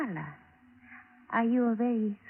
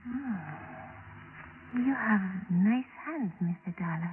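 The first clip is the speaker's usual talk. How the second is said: flirty; 2 semitones lower, much slower than usual. Acted. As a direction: purr it to charm him. Amai flirting with Johnny.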